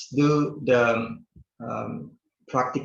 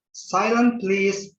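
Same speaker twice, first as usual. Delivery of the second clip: polite request; 8 semitones higher, much slower than usual. Shown as a demonstration. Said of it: "di sini ada beberapa contoh".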